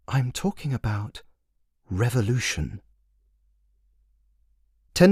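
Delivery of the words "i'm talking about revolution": servant dropping his voice to a hush; dropped voice. Acted. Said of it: "dropping his voice alongside".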